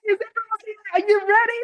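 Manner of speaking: high, fast, bursting with energy; energetic greeting. Shown as a demonstration. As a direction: hype up the room like a host. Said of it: "If I'm doing like this".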